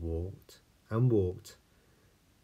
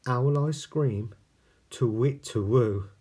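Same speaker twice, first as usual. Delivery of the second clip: frightened owl; 6 semitones higher, 9 dB louder than usual. Acted.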